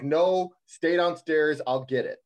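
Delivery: firm and insistent on the opening words, then easing off; retold pushy mom. Mom stopping her son from answering the door, retold insistent voice. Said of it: "never heard my mom use this voice".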